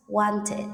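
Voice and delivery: "wanted" as two syllables, ending id; extra id syllable. Shown as a demonstration. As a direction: say "wanted" like want-id. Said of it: "write the correct sound of E D".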